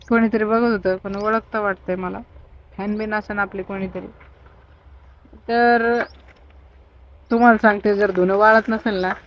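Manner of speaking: hushed talk. Real, not acted. कोणीतरी बघत होतं. (हळू, दबक्या आवाजात बोलणे)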